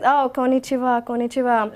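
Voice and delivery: put-on Japanese accent greeting. Shown as a demonstration. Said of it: "Uh, Japanese?".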